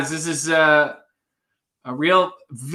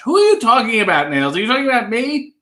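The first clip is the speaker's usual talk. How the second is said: mock tough guy; 6 semitones higher, much faster than usual. Mock Taxi Driver comeback.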